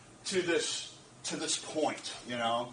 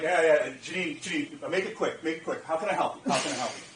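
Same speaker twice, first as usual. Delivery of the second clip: impatient brush-off; 4 semitones lower than usual. Retold or imitated. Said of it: "she could hear that in my voice".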